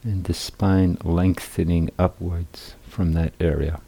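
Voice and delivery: unhurried guiding voice with long pauses; guided meditation. Real, not acted. Teacher guiding seated meditators into balanced posture, calm guided meditation. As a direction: lead them calmly through settling the body, phrase by phrase.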